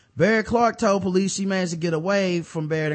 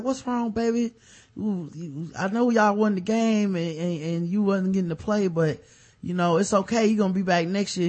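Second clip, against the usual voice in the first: a bit higher, soothing mock girlfriend; sweet girlfriend voice; 4 semitones higher than usual. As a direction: coo at him like a comforting girlfriend. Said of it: "She was like".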